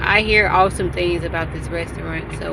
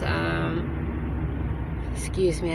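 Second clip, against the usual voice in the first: mid-yawn; words stretched by a yawn; 6 dB quieter, slower than usual. Real, not acted. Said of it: "I just yawned".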